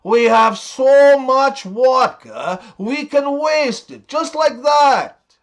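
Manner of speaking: unhurried mock Russian accent. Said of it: "The Russian guy says".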